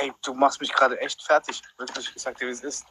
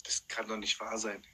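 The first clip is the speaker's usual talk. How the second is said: stunned disbelief; 8 semitones lower, 11 dB quieter than usual. Real, not acted. Stunned by trick.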